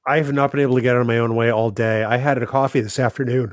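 talking through a yawn. Real, not acted. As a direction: stretch the words into a yawn. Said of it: "I'm yawning right now".

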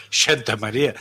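"Santa" said as "Shanta"; ese como "sh". Shown as a demonstration. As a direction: turn the S of "Santa" into sh. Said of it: "pero no decimos Santa María". ("Santa" pronunciado "Shanta")

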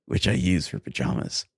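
deliberate, measured read-aloud; story narration. Acted. Podcast host reads bad fan fiction to co-host, story narration. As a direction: read each sentence out with careful pauses.

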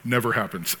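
deadpan sarcasm in an ordinary voice; understated mock sincerity; sarcastic. Real, not acted. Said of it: "of course I'm being sarcastic".

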